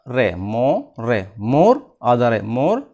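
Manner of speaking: मो and रे built up slowly into मोर; syllable by syllable. Shown as a demonstration. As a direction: join मो with half रे into मोर. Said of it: "टुकड़े करते हैं". (मो और रे जोड़कर मोर, टुकड़ों में बोलना)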